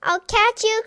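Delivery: high, loud chasing call; cried out. Acted. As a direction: cry out as you run after the dog. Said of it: "cried Neelie".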